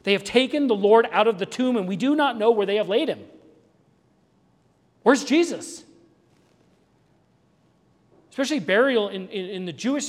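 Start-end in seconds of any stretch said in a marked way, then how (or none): 0.0-5.8 urgent report with a touch of panic; mild retold panic. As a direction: imitate her alarm, punching key words. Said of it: "the panic in her voice".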